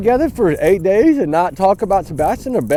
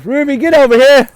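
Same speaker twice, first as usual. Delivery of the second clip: exasperated yell, higher pitched; raised-voice scolding command; calling the dog; 4 semitones higher, 4 dB louder than usual. Real, not acted. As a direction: order the dog back urgently. Yelling at the runaway dog.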